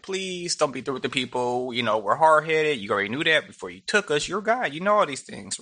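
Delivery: a touch of soft pleading, retold; mild mock pleading. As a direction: lightly imitate someone begging for mercy. Moses pleads with God for people.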